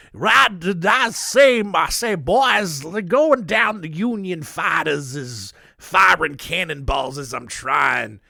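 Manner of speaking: hammed-up British accent, slow and showy; P G T Beauregard in a British accent. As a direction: play a pompous general in a put-on British accent, outraged his dinner was interrupted. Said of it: "I gave him a British accent".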